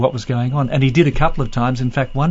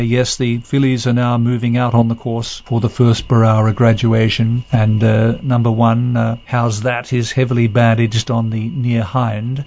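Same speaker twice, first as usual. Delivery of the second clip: a light imitation of a formal on-air race call; mock announcer delivery, understated; booming race-call voice. Imitating the race caller's formal on-air call, lightly. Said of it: "So that's the way he spoke".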